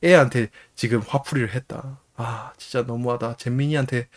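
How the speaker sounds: 한숨 섞듯 작게 자책; 힘 빠진 소리로 후회하는 흉내; 자책하는 혼잣말. Retold or imitated. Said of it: "그렇게 자책을 하다가". (풀 죽은 자책)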